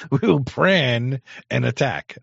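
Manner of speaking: slow, loud mock Chinese accent repeating the clip. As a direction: parrot the Chinese-accented line slowly. Repeating the clip's accented line.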